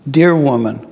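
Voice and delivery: a touch of gentleness on dear; gently. Acted. Jesus answering his mother, gently. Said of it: "Jesus answered gently".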